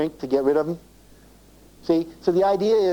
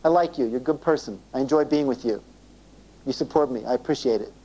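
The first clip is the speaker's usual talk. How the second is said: tender appreciation; 5 semitones lower than usual. Shown as a demonstration. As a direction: gently tell her she matters. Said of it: "And acknowledge that".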